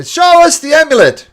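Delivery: loud demanding shout; shouted demand from the crowd. Acted. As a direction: yell it as the whole crowd.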